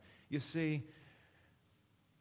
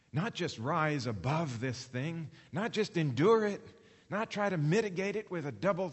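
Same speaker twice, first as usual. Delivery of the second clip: louder and higher, pressing the point hard; emphatic preaching; 3 semitones higher, 5 dB louder than usual. Real, not acted. Preacher urging his congregation, loud emphatic push. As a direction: drive it home to the congregation with force.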